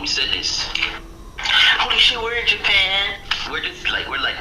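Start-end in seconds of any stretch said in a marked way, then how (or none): 1.8-3.2 high, astonished exclamation; amazed. Retold or imitated. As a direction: cry out the discovery in wonder. Acting their amazed discovery.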